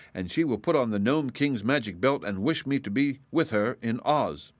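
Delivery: lightly voiced eager girl explaining; Dorothy, confident. Figure of Dorothy.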